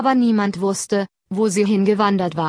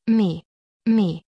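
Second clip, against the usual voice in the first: meckernd wie eine Ziege; Ziegenmeckern. A narrator's reading. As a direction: das Meh wie eine Ziege blöken. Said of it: "Die Ziege antwortete". (gemecktertes Meh der Ziege)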